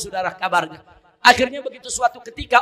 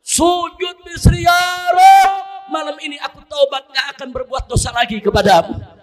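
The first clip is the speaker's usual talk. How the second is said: higher, half-shouted tearful plea; crying repentance; 5 semitones higher than usual. Acted. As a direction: weep out the confession to God. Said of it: "Begitu bangun dia nangis".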